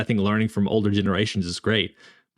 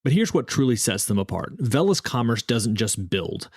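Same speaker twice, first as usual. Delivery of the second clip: polished, scripted podcast ad delivery; sponsor ad read. Acted. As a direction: read the sponsor spot crisply, selling the service.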